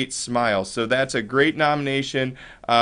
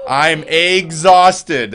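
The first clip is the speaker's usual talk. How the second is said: tired egg voice; 6 dB louder, much slower than usual. Acted.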